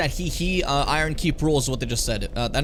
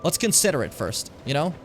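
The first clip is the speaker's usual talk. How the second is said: ordinary delivery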